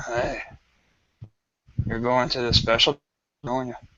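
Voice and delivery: hushed, quiet half-whispered aside. Narrating a scene where a guard half-whispers to the player's character, guard's half-whisper. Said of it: "one of them will kind of whisper".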